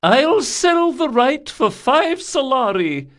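high, loud, slow shout. A narrator's reading. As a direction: call out the offer. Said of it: "shouted the Lashani Viscountess".

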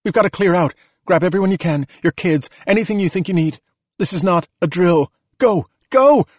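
high shouted orders, rising to a loud peak; rally a crowd to get out now; pressing evacuation shout; urgent shout. A narrator's reading. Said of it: "Juliet shouted".

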